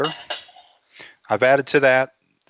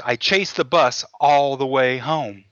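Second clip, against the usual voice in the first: frugal husband. Retold or imitated. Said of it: "he goes".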